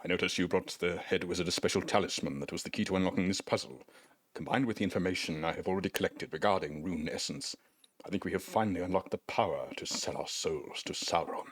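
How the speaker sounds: a hint of a sly old wizard; wizard NPC voice. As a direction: read the wizard's lines, slipping into a sinister aside. Reads wizard NPC dialogue aloud.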